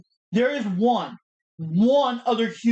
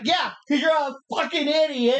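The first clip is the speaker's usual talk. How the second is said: mock yell; 5 semitones higher than usual. Imitating Tafari during promo.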